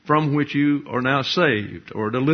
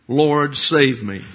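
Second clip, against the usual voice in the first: slow, louder plea of a sinking man; crying out for help; 4 dB louder, slower than usual. Retold or imitated. Peter sinking, calling to Jesus, slow loud plea. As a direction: drag out a desperate cry to the Lord. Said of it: "he cried out".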